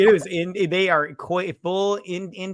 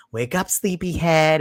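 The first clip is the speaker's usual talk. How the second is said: slow, higher, louder wake-up call; mock cheery mom; 4 semitones higher, 5 dB louder, slower than usual. Mom waking daughter for college, mock cheery. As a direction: play a mom rousing her kid.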